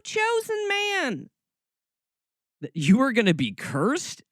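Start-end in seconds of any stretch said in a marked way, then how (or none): 0.0-1.3 much higher, slow mock-reverent squeak; mocking chosen man. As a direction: sneer at the phrase with a high mock tone.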